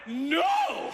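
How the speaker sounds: panicked yell of no; shouted no. Retold or imitated. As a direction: scream it in refusal. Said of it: "I go".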